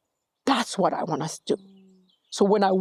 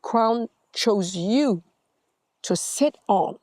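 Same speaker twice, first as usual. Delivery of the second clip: solemn saying; much slower than usual. Retold or imitated. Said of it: "my people say".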